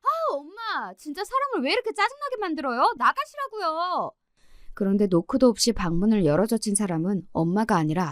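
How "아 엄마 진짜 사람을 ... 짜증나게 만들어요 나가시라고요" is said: high-pitched, irritated cry, slowing at the end; exasperated outburst. Retold or imitated. 방에 들어온 엄마인 줄 알고 외치는 딸. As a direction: whine out at mom to leave. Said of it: "저는 이렇게 외쳤습니다".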